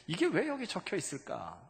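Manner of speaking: normal talking voice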